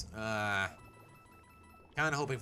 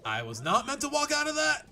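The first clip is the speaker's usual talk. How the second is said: surprised; 14 semitones higher, 6 dB louder than usual. Real, not acted. Surprised outburst at game.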